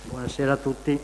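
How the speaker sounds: speaking through a face mask; muffled, masked voice. Real, not acted. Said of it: "scusate se tengo la mascherina".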